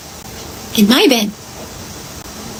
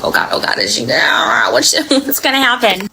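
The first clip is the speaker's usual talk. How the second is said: mock panicked whisper. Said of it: "He's like".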